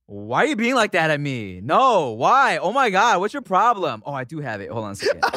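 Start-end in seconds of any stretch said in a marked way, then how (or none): 0.1-4.0 mock drunk protest. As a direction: replay your own tipsy indignation, building up. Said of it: "we're literally just being like".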